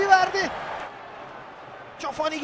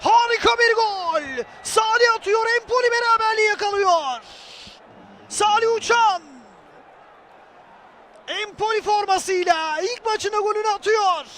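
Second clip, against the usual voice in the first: screaming football commentator. Real, not acted. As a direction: yell the scorer's name like live TV. Goal call in match commentary.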